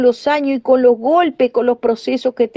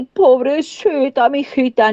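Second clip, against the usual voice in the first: mock pity. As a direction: imitate someone cooing over a poor little girl. Imagined pitying words from God.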